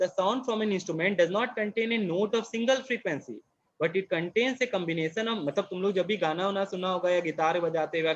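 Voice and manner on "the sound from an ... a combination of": reads each word very slowly for notes; slow classroom dictation voice. Acted. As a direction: dictate it word by word so they can write. Dictating from textbook.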